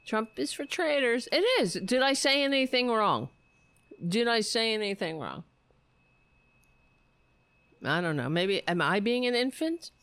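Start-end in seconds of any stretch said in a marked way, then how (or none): 0.1-5.4 mock innocent protest. Mock innocent protest about slogan.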